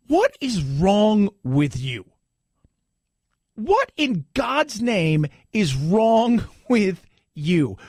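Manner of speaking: drawn-out, baffled and fed up; slow exasperated disbelief. Retold or imitated. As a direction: ask it slowly, in disbelief. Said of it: "And I think to myself".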